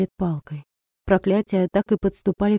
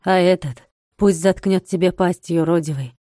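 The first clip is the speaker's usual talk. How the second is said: cold and calm. Acted. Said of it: "холодно и спокойно".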